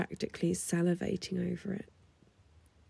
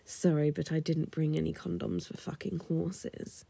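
normal talking voice

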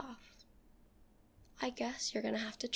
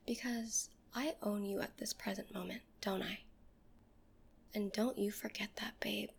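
seductive whisper; 3 dB quieter than usual. Acted. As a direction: breathe every word close to the mic.

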